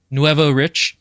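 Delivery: "Nuevo Rich" drawn out slowly, Spanish-style "Nuevo"; slow correction. Shown as a demonstration. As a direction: spell out "Nuevo Rich" slowly, offering the fix. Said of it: "I always say this wrong".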